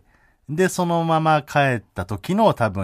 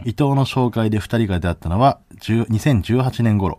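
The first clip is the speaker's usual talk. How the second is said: article read; 3 dB louder than usual. Shown as a demonstration. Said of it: "抜粋した部分読んでいいですか".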